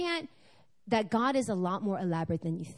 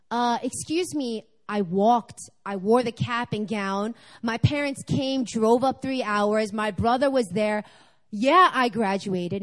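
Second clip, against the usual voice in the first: indignant protest; 4 dB louder, slower than usual. Retold or imitated. Protesting she did graduate.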